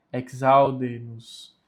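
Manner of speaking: "exaude-nos" opening "eks-au". Shown as a demonstration. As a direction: give the x in "exaude-nos" a k-s sound. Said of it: "O X tem som de K S". ("exaude-nos" com X de "ks")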